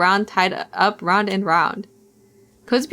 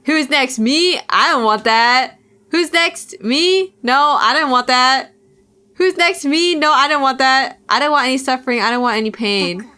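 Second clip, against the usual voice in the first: panicked pleading; 3 semitones higher than usual. Acted. Tortured girl pleading, escalating.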